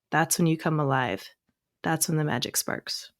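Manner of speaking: measured inspirational read-aloud with pauses between lines; affirmation reading. Acted. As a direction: read each affirmation deliberately, letting it land. Reads an affirmation list aloud.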